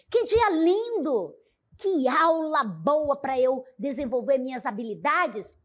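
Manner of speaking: joyful exclamation. Shown as a demonstration. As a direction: exclaim with joy. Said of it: "imprimindo um tom, não é, de alegria".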